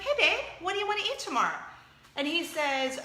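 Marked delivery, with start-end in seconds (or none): 0.0-1.6 sweet asking. Retold or imitated. Retold question to her husband.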